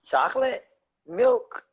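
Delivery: high disbelieving rising questions; you can't believe what you heard; incredulous question. Real, not acted. Incredulous at chocolate milk beer.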